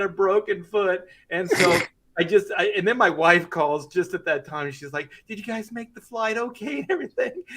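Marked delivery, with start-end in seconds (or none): 5.3-7.4 laughing through pain. Real, not acted. Father with a broken foot quoting his wife, laughing hysterically. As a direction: quote squeezed out through real laughter. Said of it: "I just kinda hysterical laugh".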